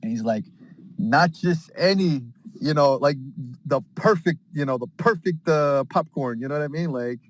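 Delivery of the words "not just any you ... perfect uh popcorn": drawn-out ad tagline, slowed down; slow slogan read. Acted. Adam Aaron closing the horror ad with a slow tagline. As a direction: stretch the slogan out like a commercial.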